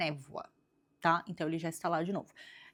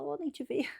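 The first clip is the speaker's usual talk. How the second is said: higher, a hint of a sly snake; sly serpent; 8 semitones higher, 4 dB quieter than usual. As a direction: feign innocence lightly. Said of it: "Aí ele fala".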